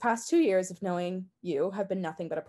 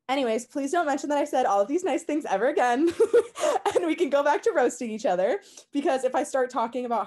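laughing; 7 semitones higher, 8 dB louder than usual. Real, not acted. Embarrassed after sincere praise.

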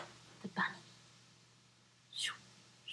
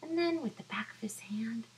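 whispering; 3 semitones higher, 7 dB quieter than usual. Acted. Suspense whispered.

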